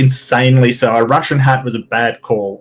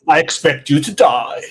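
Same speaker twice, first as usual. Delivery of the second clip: lightly acted movie villain line; Bond villain; 3 semitones higher than usual. Guest plays the villain to his co-hosts, mock Bond villain. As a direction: deliver a mock-sinister villain threat.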